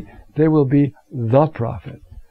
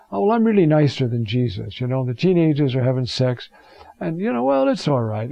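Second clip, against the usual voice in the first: mock lax priest. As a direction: imitate a priest excusing everything. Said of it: "we priests ... sometimes we think".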